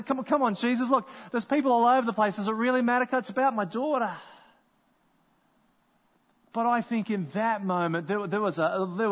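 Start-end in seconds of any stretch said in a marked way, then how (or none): 0.0-4.1 anxious. Pretend. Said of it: "hopping around a little bit anxiously".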